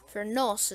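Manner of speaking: "furnace" said as fur-NOSS; joking mispronunciation of furnace. Shown as a demonstration. Gamer playfully mangles a word for viewers, "furnace" as fur-noss. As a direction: say "furnace" with an "oss" ending. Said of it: "is how you pronounce it".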